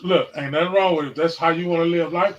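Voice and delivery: ordinary talk, nothing marked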